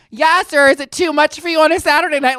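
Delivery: high, loud sassy retort, imitated; popping off. Miss Mama popping off at the old man, mock taunting. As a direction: snap back loudly at him, acted out. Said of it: "they're popping off at him".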